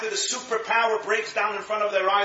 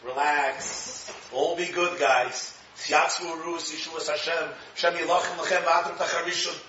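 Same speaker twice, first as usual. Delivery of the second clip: reassuring; 3 semitones lower than usual. Retold or imitated. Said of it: "what does Moshe Rabbeinu tell them".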